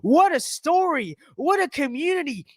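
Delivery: high, sugary mock sincerity; mocking gush. Vlogger reads a gushing tweet, sugary mocking voice. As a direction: lay the sweetness on thick.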